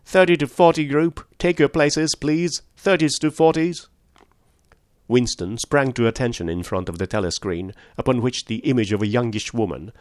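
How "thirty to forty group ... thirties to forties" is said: high, loud instructor call; piercing yap. A narrator's reading. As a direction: yap orders at the whole group. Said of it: "yapped a piercing female voice".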